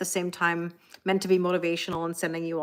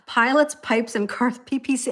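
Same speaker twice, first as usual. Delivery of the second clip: higher, louder title-reading; playful film title; 4 semitones higher, 3 dB louder than usual. Pretend. Streamer joking that it sounds like a film, film-title delivery. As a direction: announce it like a movie title. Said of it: "like a, like a film title".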